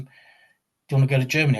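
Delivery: lightly imitated Welsh accent. Promoter offers wrestler a trip to Germany, light Welsh accent. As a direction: retell it with a hint of Welsh. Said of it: "in his Welsh accent".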